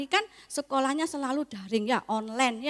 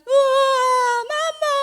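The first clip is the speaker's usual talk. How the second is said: put-on much higher, louder, wailing child; hammed-up toddler wail in the dark; mock crying toddler; 14 semitones higher, 9 dB louder, much slower than usual. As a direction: wail for Mama like a frightened toddler. Toddler crying when lights go out.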